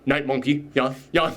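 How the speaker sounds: mumbled half-attentive yeses into a phone; guard on the phone. Acted. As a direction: play a distracted guard mid-call. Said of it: "he's talking on the phone".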